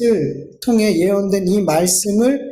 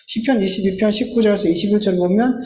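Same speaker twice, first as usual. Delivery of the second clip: ordinary talk, nothing marked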